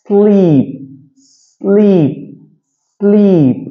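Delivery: s joined straight onto 'ஸ்லீப்'. Shown as a demonstration. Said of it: "கொஞ்சம் ஃபாஸ்டா வாசிங்க". ('ஸ்லீப்' சேர்த்து சற்று வேகமாக)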